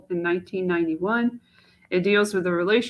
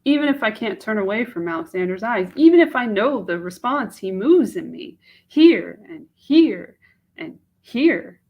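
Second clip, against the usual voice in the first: put-on anxious young woman torn over a proposal, louder at peaks; Mache; 2 semitones higher, 7 dB louder than usual. Young woman doubting a marriage proposal to herself, in an anguished voice. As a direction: she pours out her doubts, swelling louder.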